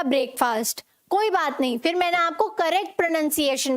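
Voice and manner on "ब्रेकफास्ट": ब्रेकफास्ट said "brake-faast"; long vowels in both halves of ब्रेकफास्ट; wrong pronunciation. Shown as a demonstration. Teacher showing students the error, ब्रेकफास्ट mispronounced as "brake-faast". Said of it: "आपने बोला".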